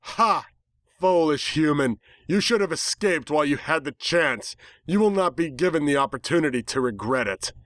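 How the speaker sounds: lightly voiced scornful villainess; disdainful villain. A narrator's reading. The misty villain scorning the human, disdainful. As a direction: sneer down at them. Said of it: "its deep feminine voice filled with disdain".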